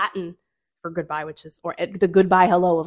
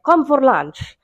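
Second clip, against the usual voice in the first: imitating a thick Italian accent; a street hawker's Italian accent, lightly done; 5 semitones higher, 3 dB louder, much slower than usual. Hawker calling tourists in, in a mock Italian accent. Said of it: "in a very thick European Italian accent".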